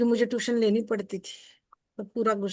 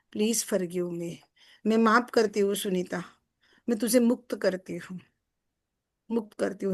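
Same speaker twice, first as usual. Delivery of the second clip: heartfelt apology. Shown as a demonstration. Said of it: "मैंने example दिया".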